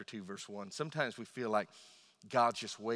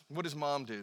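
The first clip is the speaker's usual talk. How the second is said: ordinary talk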